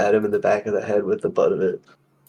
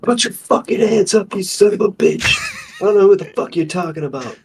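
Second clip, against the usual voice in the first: high-pitched mock command at gunpoint; acted armed threat; 9 semitones higher, 3 dB louder than usual. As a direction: order him to surrender, voice pitched well up. Player acts out armed threat.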